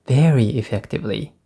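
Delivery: "very" pushed up and held a beat longer; stress on very. Shown as a demonstration. Teacher modelling the word stress on "very" for students. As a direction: lean hard on "very" in "Very effectively". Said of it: "Do you notice I stress the word very?".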